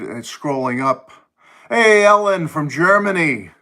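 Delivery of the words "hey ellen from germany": higher and louder, a bright call of hello; excited greeting. Real, not acted. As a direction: greet her like a welcome surprise. Greeting a viewer on stream.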